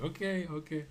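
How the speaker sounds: high, laughing mock surrender; laughing okay. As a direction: giggle through a giving-in okay. Agreeing to mom while laughing.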